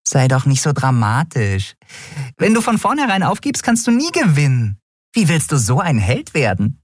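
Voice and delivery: high tiny voice, smiling and encouraging; smiling tease. Acted. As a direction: tease him into trying. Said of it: "ließ ein Lächeln aufblitzen".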